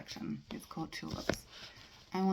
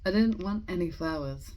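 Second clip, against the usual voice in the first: measured, deliberate poem recitation with pauses between phrases; poetry reading; 4 dB louder, slower than usual. Acted. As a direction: read the poem aloud, letting each line settle. Reads a poem aloud.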